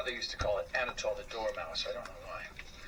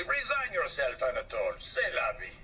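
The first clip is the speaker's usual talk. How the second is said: indifferent shrug. Acted. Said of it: "shrugged his shoulders indifferently".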